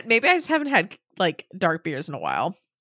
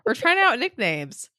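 excited; 11 semitones higher, 5 dB louder than usual. Real, not acted. Excited joking about nicknames.

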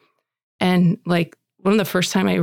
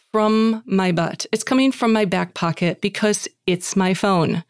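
ordinary talk, nothing marked

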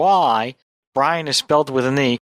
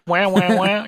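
sad trombone wah; 3 semitones higher, slower than usual. Pretend. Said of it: "I am a living sound effect".

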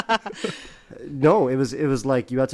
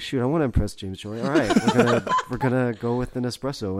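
laughing inner monologue; 3 semitones higher, 4 dB louder than usual. Retold or imitated. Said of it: "it's like".

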